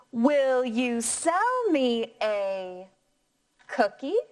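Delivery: slow, rising question tune. Shown as a demonstration. Teacher modelling Benny's question for the class, slow rise. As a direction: lift the voice at the end. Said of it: "Let's try this question together".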